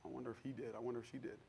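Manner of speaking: very soft, low musing to oneself; hushed private wondering. Retold or imitated. Christian measuring self against others, hushed wondering. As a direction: imitate someone quietly wondering about other people.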